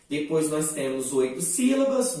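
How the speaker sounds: normal talking voice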